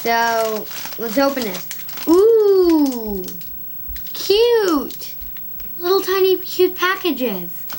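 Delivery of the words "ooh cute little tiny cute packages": excited. Real, not acted. Unboxing cute candy packages.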